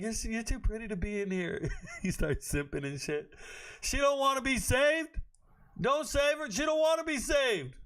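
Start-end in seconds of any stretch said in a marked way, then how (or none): 0.0-1.7 light high mock-sweet simp voice; simping strip club guy. Mocking chat guys who fawn over a dancer, high and sweet. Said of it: "them dudes who go to the strip club". 3.8-7.7 yelling the warning up high and loud; loud high exclaim. Real, not acted. Streamer yelling at simping chat, high and loud.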